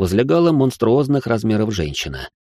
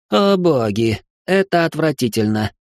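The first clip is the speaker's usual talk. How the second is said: выше, со стоном отвращения; простонать, морщась от гадливости; 6 semitones higher than usual. A narrator's reading. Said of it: "простонал Ричард". (аристократ в культурном шоке стонет, выше)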